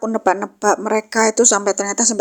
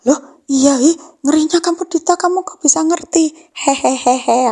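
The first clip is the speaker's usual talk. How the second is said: teasing friend; 6 semitones higher, 4 dB louder, slower than usual. Retold or imitated. Friend teasing Dita, then giggling.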